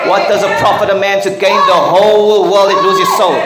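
loud, fast preaching cry; preaching shout. Real, not acted. Preacher to his congregation, fast loud shout. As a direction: drive the question home to the church.

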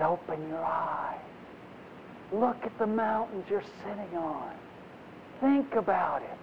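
soft, patient reassurance; calm a worried child lovingly; gentle voice of God. Retold or imitated. God answering the complainer.

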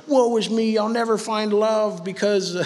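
a lightly whiny self-pity voice; mock sorry-for-myself moaning; mopey voice. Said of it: "I don't know why I'm doing that voice".

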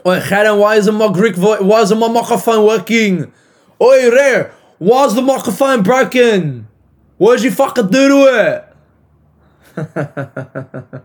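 loud, high, hammed-up Greek voice; Greek-accented shouting, playing it up for laughs. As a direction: yell it in an outraged put-on Greek accent. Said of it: "Am I allowed to do Greek voice?".

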